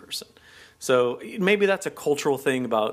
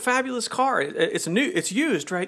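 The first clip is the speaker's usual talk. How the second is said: mock bragging gush; 6 semitones higher than usual. Mock American bragging about a bargain.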